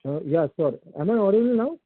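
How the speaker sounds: muffled voice on a speakerphone. Real, not acted. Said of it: "It's a muffled voice".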